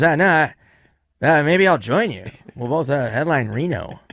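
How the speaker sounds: Norm. Retold or imitated. Comic offering to join his friend in Reno, halting imitation. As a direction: imitate a comic friend hesitantly floating a plan. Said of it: "He goes".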